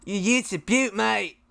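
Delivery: imitation Aussie accent; Australian accent. Shown as a demonstration. Guest copies the host's ute phrase, Australian accent. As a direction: echo it like an Australian mate. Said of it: "I just used all three words".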